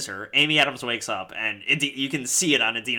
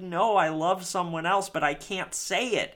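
mock crying; 7 semitones higher than usual. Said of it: "She's crying because she's like".

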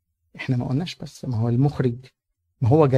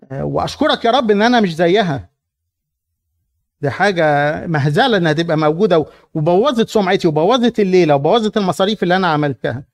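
smug Pharisee. Acted. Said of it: "راجل صارم".

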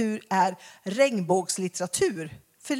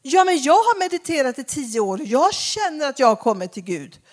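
imitating woman; 2 semitones higher, 4 dB louder than usual. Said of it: "Hon var så arg".

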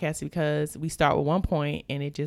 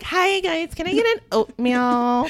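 much higher, slow sugary voice; sweet drive-thru voice; 10 semitones higher, 3 dB louder, slower than usual. Shown as a demonstration. Ordering oatmeal at the drive-thru, high sweet voice. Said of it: "now you hear me be like".

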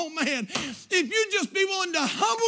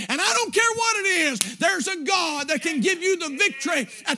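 preaching hard, pitch climbing higher and higher; full-force preaching; 3 semitones higher than usual. Acted. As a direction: lean into it like a revival preacher pleading.

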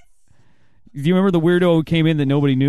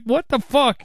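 shocked; 10 semitones higher, slower than usual. Retold or imitated. Retold shocked reaction.

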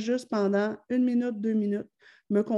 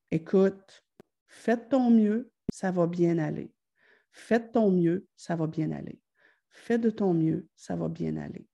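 reassuring voice; 3 semitones lower than usual. Retold or imitated. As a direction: soothe the child, letting it die away. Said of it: "par une voix plus bienveillante".

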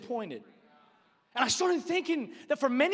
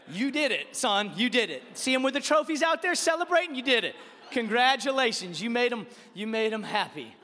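mock praise from an exasperated dad; hammed-up false cheering; sarcastic congratulations. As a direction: congratulate him with heavy sarcasm.

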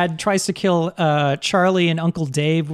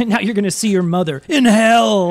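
villain dad; 3 semitones higher, 4 dB louder than usual. Retold or imitated. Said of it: "his dad villain goes".

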